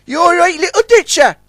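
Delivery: very high concerned call. A narrator's reading. Sunshine checks on the hurt dredger, calling out. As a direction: call across to check on him. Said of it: "called Sunshine".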